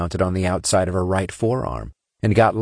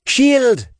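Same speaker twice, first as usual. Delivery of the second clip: sharp high alarmed yell; shouting; 6 dB louder than usual. A narrator's reading. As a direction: scream the order out. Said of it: "Sinner shouted".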